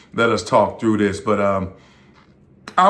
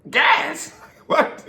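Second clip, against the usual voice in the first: surprised. Retold or imitated. Surprised at free gas.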